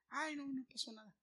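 light, soft brush-off of a mock parent; dismissive parent. Pastor mimics parents shrugging off a child's kick, soft and dismissive.

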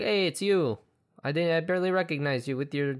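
put-on casual New York accent, lightly done; a hint of New York in the greeting. Friend retelling a movie scene, light New York accent. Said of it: "now I'm doing a New York accent".

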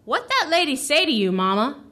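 put-on a light toddler voice; child's question. Son asking mama about the lady, lightly childlike. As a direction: ask like a curious little boy. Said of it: "my son Gus asked".

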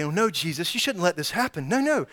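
mild mock panic; whiny believer. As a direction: play the complaining believer. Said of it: "And we say".

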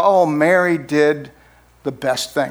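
slow, self-satisfied "Oh, Mary did" then dropping; smug mock version. Pastor mocking how people retell it, smug. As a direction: say it like a told-you-so. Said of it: "But he doesn't say it like that".

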